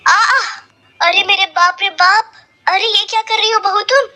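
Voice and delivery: shrill high scream of alarm. A narrator's reading. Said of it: "वो जोर से चिल्लाती है".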